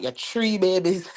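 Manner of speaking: repeating it in a Jamaican accent; light Jamaican lilt on babies. Shown as a demonstration. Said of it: "My, my Jamaican accent just, ooh, just slipped out".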